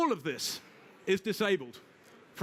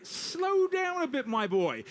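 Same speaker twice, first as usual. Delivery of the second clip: much higher, slow, fatherly doctor voice; Host Guardian as kindly doctor; 6 semitones higher, slower than usual. Acted. A security service talking to a host like a patient old doctor, much higher and slow. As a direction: play a patient old doctor calling him my boy. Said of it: "have the Host Guardian service say".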